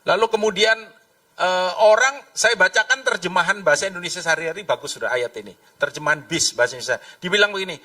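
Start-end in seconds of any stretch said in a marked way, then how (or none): none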